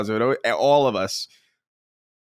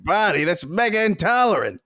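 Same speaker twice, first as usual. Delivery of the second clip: Fred impression; 6 semitones higher than usual. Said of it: "this Flintstones bit".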